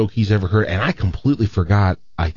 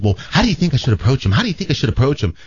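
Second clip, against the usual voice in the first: campy Southern gay nurse; 4 semitones higher, faster than usual. Acted. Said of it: "my natural gay imitation just comes across as Southern".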